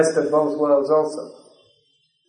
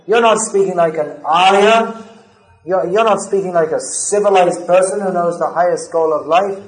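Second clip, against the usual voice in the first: raised, insistent reproach; forceful scolding; 3 semitones higher than usual. Retold or imitated. Krishna chastising Arjuna for his weakness, raised and forceful. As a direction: scold him like a teacher who won't accept excuses. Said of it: "So Krishna is speaking forcefully".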